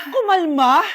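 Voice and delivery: angry mother yelling at the teacher; furious yelling. Acted. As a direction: blame the teacher in a rage.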